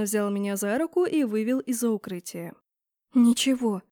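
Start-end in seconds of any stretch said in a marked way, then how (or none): none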